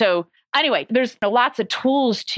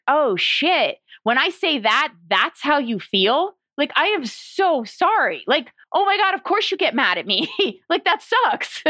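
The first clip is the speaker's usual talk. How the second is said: a mildly raised, slowed voice of a partner realising the hurt; stunned apology; 6 semitones higher than usual. Retold or imitated. Partner hearing girlfriend's feelings for the first time, mock stunned. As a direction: play the partner suddenly getting it, sorry and a bit laughing.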